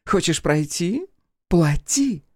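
put-on high, slow, loud drunken coo. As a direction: block his way with a tipsy leer. Drunk daughter taunts Crow.

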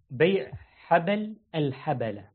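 حبل الحبلة slowly, with an "a" after the ب: habal al-habala; correct vowel demo. Shown as a demonstration. Teacher showing students the right reading, careful demonstration of حبل الحبلة with fatha on ب. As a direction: say حبل الحبلة word by word, opening the ب with a short a. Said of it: "هذا ب-، بفتح الباء".

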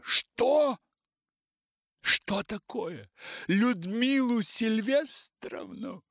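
loud, high enraged disbelief; furious outburst. Acted. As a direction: explode in rage. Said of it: "бешенство овладело мною".

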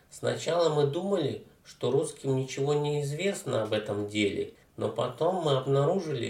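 sour, glum voice over the phone; a gloomy official droning down the line; кисло-унылый голос из трубки. Acted. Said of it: "донёсся из трубки уныло-кислый голос". (уныло-кислый голос в трубке)

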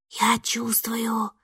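slow breathless whisper, no voice; scared whisper. Acted. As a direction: whisper it, barely daring to speak. Испуганный шёпот в ответ. (испуганный медленный шёпот)

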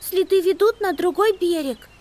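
put-on very high, anxious girl mouse; worried little squeak. A narrator's reading. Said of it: "добавила с тревогой".

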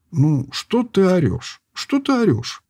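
lazy retort. A narrator's reading. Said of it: "ленивым образом отругивался".

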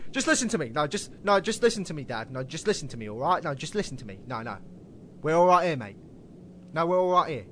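a loose, hammed-up American accent, pleading "mate"; half-hearted American accent begging to be heard; mock American accent. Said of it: "You do a better American accent than me".

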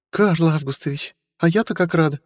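put-on high, sugary chirping young woman; chirping sweetly. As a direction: chirp with sweet fake delight. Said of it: "прощебетала Стелла".

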